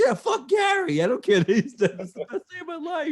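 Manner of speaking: high-pitched gleeful mock cheer; cheering fans. Wrestling fan celebrating at a stranger's funeral, mock cheering. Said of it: "like, cheering for the par".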